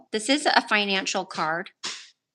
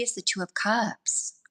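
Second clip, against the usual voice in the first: whispering; 6 dB quieter than usual. Real, not acted. Names the overall card.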